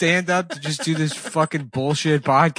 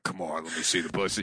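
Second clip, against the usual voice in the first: low, softer villain wheedle; pleading villain; 10 semitones lower, 9 dB quieter than usual. Acted. Villain still asking his captive, low wheedling. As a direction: coax in a deep killer voice. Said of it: "he's still like".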